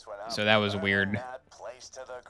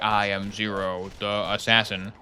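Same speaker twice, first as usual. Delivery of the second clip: robot voice; 3 semitones lower, 3 dB quieter, slower than usual. Retold or imitated. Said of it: "he has a robot voice".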